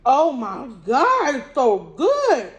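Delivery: words muffled by food; chewing while talking. Real, not acted. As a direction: mouth partly full. Seen 1: Holds pizza slice, mouth working food, fingers to mouth mid-phrase.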